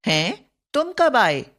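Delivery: lightly acted astonishment; surprised. Shown as a demonstration. Teacher acting a surprised question for the class, mild surprise. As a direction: ask as if caught off guard. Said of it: "विस्मय या आश्चर्य सूचक".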